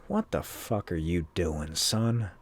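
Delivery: low, hushed scolding father; growing quiet with disapproval, acting the dad; disappointed father. Voicing the ghost father scolding.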